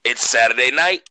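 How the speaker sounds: booming ringmaster intro, slow. Acted. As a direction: announce it like a circus ringmaster. Show opening announcer intro.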